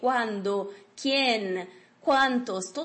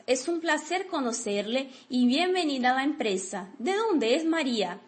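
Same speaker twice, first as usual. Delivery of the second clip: model sentence. Shown as a demonstration. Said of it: "nós temos".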